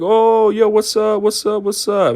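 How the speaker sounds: high, drawn-out bro greeting; excited greeting. Retold or imitated. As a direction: hype up a buddy you just spotted.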